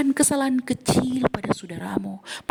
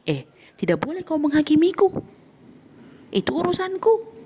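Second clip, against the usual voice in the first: higher, indignant brush-off; defensive retort; 5 semitones higher than usual. Retold or imitated. Sinner snapping back at the one who rebukes him, indignant. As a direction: push the rebuke away, offended.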